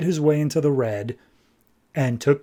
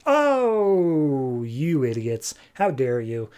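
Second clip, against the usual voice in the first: Strife's mock crying; much slower than usual. Strife mourns War before the gods, mock crying. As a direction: wail theatrically, then drop to a scolding. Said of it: "she's crying over War's passing".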